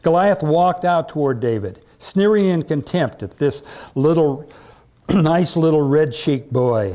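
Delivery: measured, emphatic Bible reading; dramatic story narration. A narrator's reading. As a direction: tell the story to a congregation with relish. Reads Bible story aloud.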